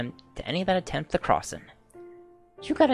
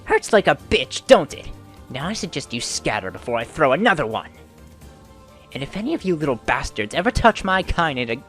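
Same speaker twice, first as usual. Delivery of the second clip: put-on much higher and louder old woman's fury; thick with rage; 6 semitones higher, 8 dB louder than usual. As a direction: threaten the kids in fury. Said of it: "a voice thick with rage".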